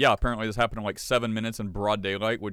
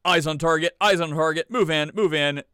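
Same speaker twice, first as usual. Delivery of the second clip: louder, higher tactical call-outs; mock commando; 3 semitones higher, 6 dB louder than usual. Host imitating commandos on a raid, mock urgency. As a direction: lightly play a squad giving urgent orders.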